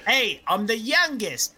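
a lightly done bad Canadian accent, slow on the first line; a half-hearted Canadian accent. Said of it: "That's a bad Canadian accent".

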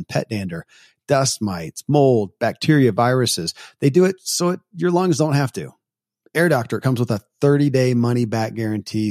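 measured, polished host read; podcast ad read. Real, not acted. Host to listeners between interview segments, scripted announcer read. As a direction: read it as a sponsor spot. Host reads episode bridge and ad.

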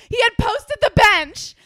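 high, loud, drawn-out exclamation; outraged reveal. Real, not acted. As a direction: stretch out the shocking news in disbelief.

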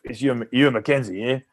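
lightly imitated Australian caller; a touch of Aussie on the phone; Australian accent. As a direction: introduce yourself in an Australian accent. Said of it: "an Australian accent on the phone".

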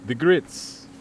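put-on slow Transylvanian vampire accent. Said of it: "in a Transylvanian accent".

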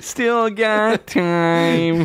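high, very slow nasal-free whine stretching every word; a hammed-up pop-punk singer's drawl; bad impression of a pop-punk singer. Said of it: "You are doing a bad Tom DeLonge impression".

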